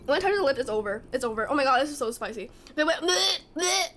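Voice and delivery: usual speaking voice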